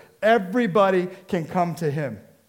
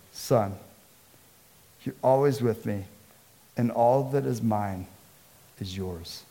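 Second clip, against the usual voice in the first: tender father; 5 semitones lower than usual. Acted. Father gently reassuring his angry older son.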